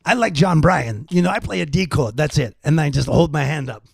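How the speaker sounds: lightly imitated rock guitarist; a hint of a rocker explaining his playing; comic retelling in a slightly put-on voice. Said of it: "actual quotes from my interview with C C DeVille".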